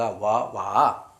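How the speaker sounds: വാ, വാ drawn out slowly; teacher stretching വാ; slow sound demo. Shown as a demonstration. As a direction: model വാ, വാ for learners. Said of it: "വാ എന്നുമാണ് വായിക്കുക".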